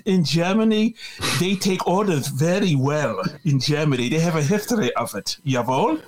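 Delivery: lightly put-on German accent; a touch of German in the voice. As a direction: do a mild mock German accent. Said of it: "not a bad German accent".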